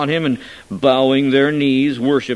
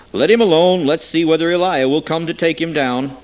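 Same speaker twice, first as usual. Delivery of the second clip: calling out; 5 semitones higher, 5 dB louder than usual. A narrator's reading. Bystander calls out.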